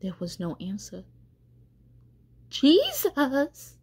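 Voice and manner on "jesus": high, drawn-out call, somewhat raised; louder call. A narrator's reading. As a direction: call out the name longer and more insistently. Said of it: "he called a little longer, louder".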